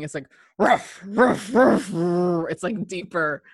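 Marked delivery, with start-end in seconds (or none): 0.6-2.5 thicker German bark. Retold or imitated. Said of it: "it's like a thicker barking".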